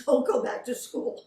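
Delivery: laughing through the words; chuckling advice. Real, not acted. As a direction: laugh out the punchline. Laughing punchline.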